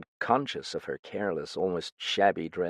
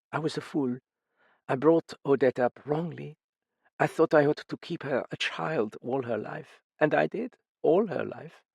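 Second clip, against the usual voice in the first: higher, strained, holding back grief; grieving mother; 7 semitones higher than usual. A narrator's reading. Mother confessing her guilt to the detectives, strained. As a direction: confess the pain in bursts.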